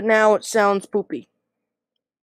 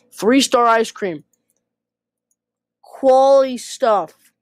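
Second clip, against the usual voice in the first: put-on slow, drawling Texas accent; 3 semitones higher, 5 dB louder, slower than usual. Gamer praising his menu in a playful slow Texas drawl. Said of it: "I'm doing a Texas voice here".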